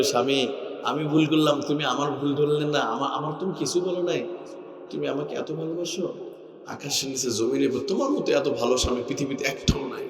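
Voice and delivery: soft, fading into hushed gratitude; tender grateful wife. Acted. Wife thanks her husband for not scolding, softening tenderly.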